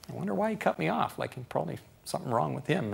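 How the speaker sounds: soft, forgiving musing; quietly giving benefit of the doubt; calm wondering. Retold or imitated. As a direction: wonder gently, letting the anger drop. Calm, forgiving response voiced.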